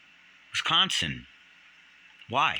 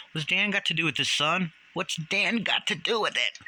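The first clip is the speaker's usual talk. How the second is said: incredulous challenge; 7 semitones higher than usual. Real, not acted. Challenging the quoted Nick.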